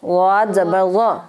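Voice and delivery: غا said slowly, tongue side against the upper molars; teacher models the sound slowly for the class; slow careful demo. Shown as a demonstration. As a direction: drag out غاد زبر غا as a model. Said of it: "زبان کی side لگائیں اوپر والی داڑھوں سے".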